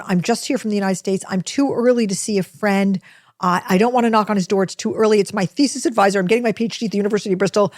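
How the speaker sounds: mildly frantic begging, tumbling into a rush; retold pleading. American tourist begs the greeter to let her in, pleading. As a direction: plead your case, piling up the reasons.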